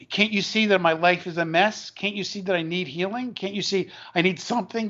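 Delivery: a touch of desperate insistence; retold desperation. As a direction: plead as if imitating someone desperate. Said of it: "he's just desperate".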